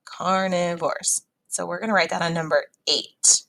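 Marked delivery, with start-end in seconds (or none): 0.0-1.2 Carnivores drawn out slowly, each syllable clear. Shown as a demonstration. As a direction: stretch Carnivores out so every syllable is heard. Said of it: "which one had three syllables".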